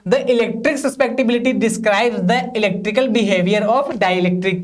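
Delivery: slow, even reading for students to copy; slow dictation. Shown as a demonstration. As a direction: dictate each word slowly so they can write. Dictating a definition. (धीमे-धीमे notes लिखवाना)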